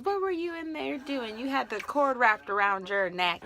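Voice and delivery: playful telling-off, starting high; mock scolding. Doctor getting on newborn about the cord, mock scolding starting high. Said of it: "my doctor was getting on him".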